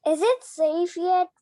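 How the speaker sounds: out of breath, asking; breathless question between gasps; panting. Acted. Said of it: "panted George".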